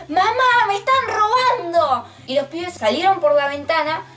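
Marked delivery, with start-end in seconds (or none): 0.1-2.1 screaming like crazy. Retold or imitated. Girl in the front yard screaming to her mom about the robbery, panicked yell. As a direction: scream it like you're being robbed. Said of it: "empecé a gritar como loca".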